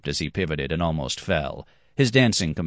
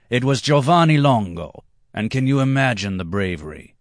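a hint of a boastful young man, higher; proud storyteller; 4 semitones higher than usual. Red-haired man lectures the table, lightly voiced and proud. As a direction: brag about the brave Genoese.

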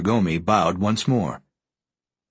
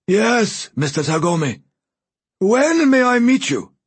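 put-on high, dry, papery old voice; dry rustling voice; 12 semitones higher, 5 dB louder than usual. A narrator's reading. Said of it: "a faint, dry, rustling voice".

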